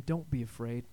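God's reassurance. Acted. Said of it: "God came and reminded him".

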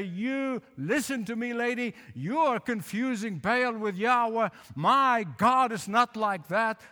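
a preacher's mock stern prophet; stern rebuke. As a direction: put her firmly in her place. Elijah imagined scolding the woman.

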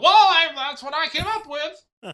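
high, slow, whiny plea; George Lucas whining. Retold or imitated. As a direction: whine it like a hurt old man. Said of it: "that's my George Lucas whining voice".

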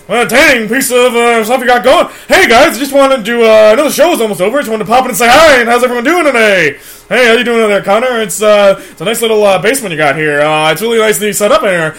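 manic rapid-fire comic riffing; Robin Williams. Retold or imitated. Guest bursting in on the podcast as Robin Williams, manic. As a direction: bounce between silly voices at full speed. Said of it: "all right, Robin had to go".

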